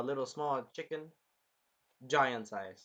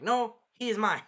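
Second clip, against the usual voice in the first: jealous retort; 7 semitones higher, 6 dB louder than usual. Retold or imitated. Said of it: "And she was like".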